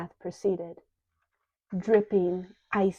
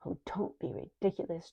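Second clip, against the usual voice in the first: chiding; 5 dB quieter than usual. Acted. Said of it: "chided Skiva in his sing-song voice".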